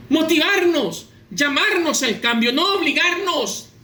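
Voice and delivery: forceful pulpit delivery, stretching the phrase ends; emphatic preaching. Acted. Preacher urging listeners to answer the call to change, emphatic preaching.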